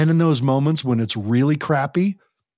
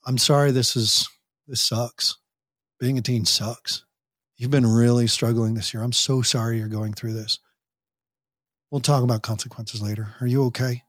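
gentle validating; 3 semitones lower than usual. Retold or imitated. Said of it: "But to say".

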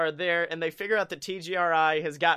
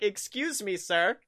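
mock indignant customer service; 5 semitones higher than usual. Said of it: "I'm like".

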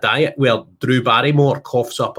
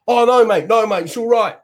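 backing down; 10 semitones higher, 4 dB louder than usual. Retold or imitated. Guy backing down nervously.

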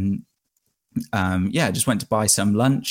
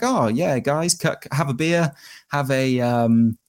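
imitating a friendly, higher-pitched welcome; lightly acted easygoing invitation, pitched up; friendly host; 4 semitones higher than usual. Shopkeeper offering the cyclists a drink, retold as friendly. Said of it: "really cool, very friendly".

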